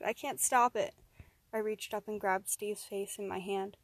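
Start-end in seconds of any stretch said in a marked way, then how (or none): 0.0-0.9 desperate, helpless cry. Acted. Man forced to attack his friend, desperate cry. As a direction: cry out helplessly, moderately raised voice. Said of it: "cried Steve".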